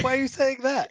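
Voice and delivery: sudden confused alarm; mock confused outburst; bewildered. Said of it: "I was like".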